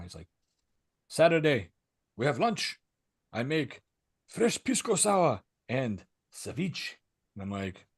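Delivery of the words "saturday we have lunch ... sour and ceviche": inviting neighbor voice. Retold or imitated. Jose inviting to lunch.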